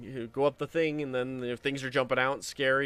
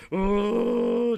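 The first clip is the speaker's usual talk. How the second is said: panicked sister; 13 semitones higher, 10 dB louder than usual. Retold or imitated. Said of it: "just freaking out".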